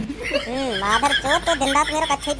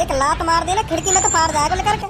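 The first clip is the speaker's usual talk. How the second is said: angry rant; 4 semitones higher than usual. Acted. Passenger shouts at other passenger.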